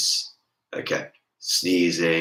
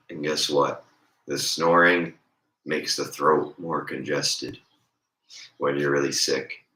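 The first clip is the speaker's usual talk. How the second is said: ordinary talk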